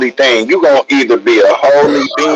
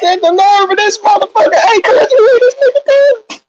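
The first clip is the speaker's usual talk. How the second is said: much higher, words squeezed through laughter; laughing while talking; faster than usual. Real, not acted. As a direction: talk through the giggles.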